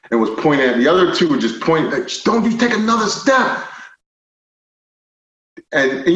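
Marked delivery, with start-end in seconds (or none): 2.2-3.7 retold police warning. Retelling officers' armed warning.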